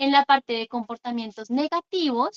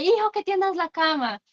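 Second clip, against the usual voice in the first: mock yell; 5 semitones higher than usual. Shown as a demonstration. Parent nagging child to make the bed, mild mock yell. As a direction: imitate an exasperated parent's yell without real volume. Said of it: "después gritándole".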